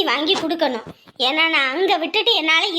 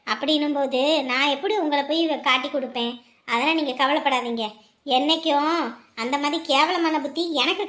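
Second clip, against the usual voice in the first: tearful; 6 semitones lower, 5 dB quieter than usual. Acted. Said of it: "ஏக்கா அழுவுற?".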